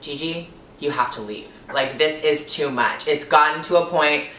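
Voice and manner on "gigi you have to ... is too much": low, quiet and controlled; subdued, collected resolve; composed self-talk. Retold or imitated. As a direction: firmly talk yourself into leaving, softly. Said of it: "I composed myself".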